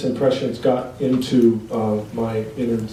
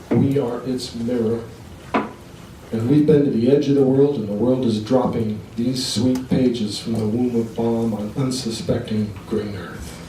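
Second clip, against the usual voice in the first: poetry reading. Acted. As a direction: recite it to an audience, settling toward a hushed close. Continues reading the poem.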